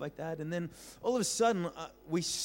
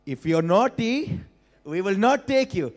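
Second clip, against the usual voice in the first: parents threatening; 5 semitones higher, 8 dB louder, slower than usual. Retold or imitated. Parents threatening kids in story.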